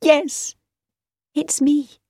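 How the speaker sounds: happy. A narrator's reading. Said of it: "said Victoria happily".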